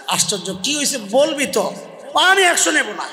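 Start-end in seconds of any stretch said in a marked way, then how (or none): 2.1-3.0 put-on sulky child. Child sulking, refusing the money.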